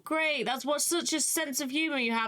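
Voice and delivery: acted polite laughing-off, starting high; sheepish playing along. Arthur replies to the laughing Baron, sheepishly deferential. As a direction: humour a superior, pitch easing down.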